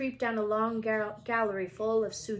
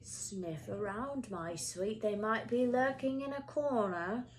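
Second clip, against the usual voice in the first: creepy caretaker; slower than usual. Acted. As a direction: coax the cat in a sly hush. Filch coaxes his cat.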